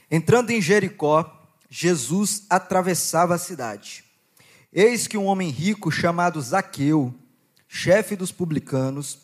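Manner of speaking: measured, deliberate Bible reading voice; slightly slowed public reading of scripture. Acted. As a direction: read the passage to the congregation with weight. Reads Luke 19 aloud.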